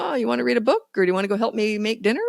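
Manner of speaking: breezy parent voice. Shown as a demonstration. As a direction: keep it casual and bright. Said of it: "You just go".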